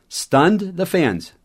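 slowed model phrase; slow teaching read. Shown as a demonstration. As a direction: read it slowly for learners. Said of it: "teaching sentence".

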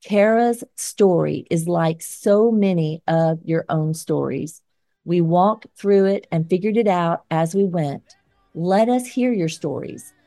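firm, measured editorial read; scripted commentary read. Acted. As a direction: read it like an op-ed segment. Reads scripted closing commentary.

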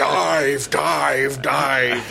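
put-on light Sean Connery-style Scottish accent on submarine orders; hint of a Scottish burr, playing a Russian captain; Scottish-tinged Russian accent. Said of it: "His Russian accent sounds remarkably Scottish".

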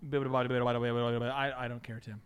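low, flat uncaring client; bored client voice. Retold or imitated. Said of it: "how many times do you hear".

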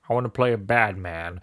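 lightly imitating a self-serious actor; Martin Freeman. Actor annoyed at goody-goody casting, lightly imitated. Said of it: "and he's like".

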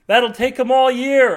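loud, high, slow shout; rookie shouting. A narrator's reading. Rookie agent in the van shouting, loud and slow. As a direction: call it out in disbelief. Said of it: "a rookie in the van shouts".

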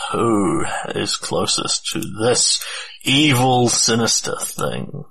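slow, drawn-out menace; ominous delivery. Acted. Game master asks who is nearest the threat, ominous. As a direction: draw it out slowly and ominously.

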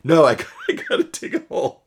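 high, loud, laughing refusal; stubborn, half-laughing no; frantic insistence. Retold or imitated. Husband refuses wife's plea to stop digging, frantic and laughing. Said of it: "And I'm like".

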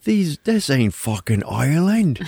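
high, slow mock-indignant rant; mock outrage. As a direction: ham up a scandalized tourist, high and drawn out. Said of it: "I was like".

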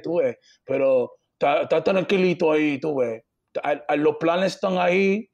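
halting, casual Dominican accent; broken Dominican Spanish. Shown as a demonstration. Answering an interviewer about getting married, Dominican accent. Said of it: "we can do my broken Dominican Spanish".

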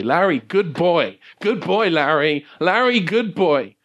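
high-pitched talking dog; Sergeant Papa. Acted. Game master voices dog rousing Larry, high and pleading. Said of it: "hear Sergeant Papa say".

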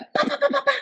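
rapid high vocal knocks; imitated door banging. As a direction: imitate repeated pounding on a door. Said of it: "batendo na porta". (batidas rápidas na porta, imitadas)

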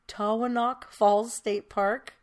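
"Taughanock" sounded out very slowly; careful pronunciation attempt. Real, not acted. Host attempts "Taughanock" for the co-host, slow and careful. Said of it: "I'm gonna ruin this".

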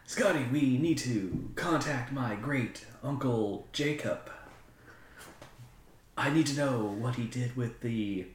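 lightly hammed-up captain, slow with big pauses; Star Trek captain. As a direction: call to the engineer in halting, drawn-out phrases. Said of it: "like, a Star Trek".

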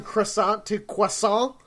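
"croissant" first kruh-SAHNT, then kwah-SAH; English r in first "croissant", French kw in second; contrasted pronunciations. Shown as a demonstration. Throwing the argument back, contrasted pronunciations. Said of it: "how you're changing it from".

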